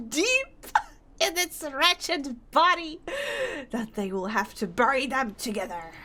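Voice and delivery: rising vow, half laughing; vengeful sailor. Acted. Fisherman vows to harpoon the creature, vengeful. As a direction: swear revenge on the beast.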